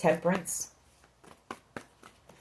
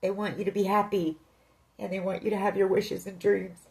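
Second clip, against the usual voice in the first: emotional; 2 semitones higher, 3 dB quieter than usual. Real, not acted. Tarot reader to viewer, moved by her own reading, choked up. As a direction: voice thick with real emotion, holding back tears. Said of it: "I'm getting kind of emotional right now".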